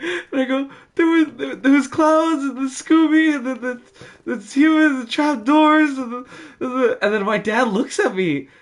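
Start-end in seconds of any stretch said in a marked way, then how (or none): 1.0-7.0 play-acted sobbing, high tearful blubbering stream of words. Retelling waking from a nightmare and running to dad, imitating own crying.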